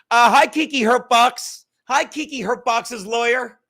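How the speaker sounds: teasing hello, stretched and loud; mock greeting. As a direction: greet her like a cheesy announcer.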